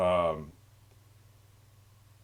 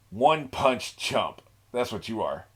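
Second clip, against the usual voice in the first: slow mock taunt; slower than usual. Voicing a taunt at the villains.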